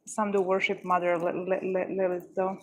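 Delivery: stammering, stuck on the name; repeating the first syllable; stuttering. Real, not acted. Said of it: "my stuttering is going to be worse than usual".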